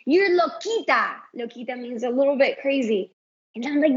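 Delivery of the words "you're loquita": put-on higher-pitched retelling of a child's compliment; admiring compliment. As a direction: imitate a little child admiring mom. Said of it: "like, as a compliment".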